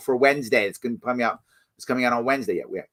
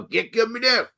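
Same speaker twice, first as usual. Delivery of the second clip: mock yell; 7 semitones higher than usual. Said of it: "and yell".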